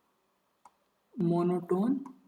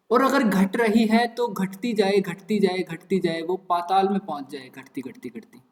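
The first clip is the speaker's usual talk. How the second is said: sinking voice. Shown as a demonstration. Teacher describing a sequence that keeps falling to the underworld, sinking voice. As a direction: let each repeat drop further, fading right away.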